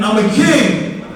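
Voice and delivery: drawn-out, convinced declaration; like you mean it. Shown as a demonstration. Speaker leads kids' affirmation, meaning it. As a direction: declare it slowly, meaning every word. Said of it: "say it like you mean it".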